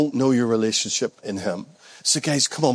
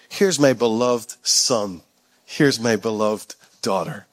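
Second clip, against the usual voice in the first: tender Father's voice; 6 semitones lower, slower than usual. Acted. Voicing the Father's words.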